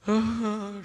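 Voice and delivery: loud imitated sob; woman's crying. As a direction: burst into an acted sob. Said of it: "aí ela começou a chorar". (soluço de choro imitado)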